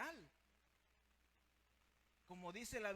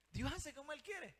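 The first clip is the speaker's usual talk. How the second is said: louder, high-pitched preacher's proclamation; emphatic declaration; 7 semitones higher, 5 dB louder than usual. Real, not acted. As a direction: drive the point home with raised voice. Preacher repeats the point emphatically. (proclamación enfática, en voz alta y aguda)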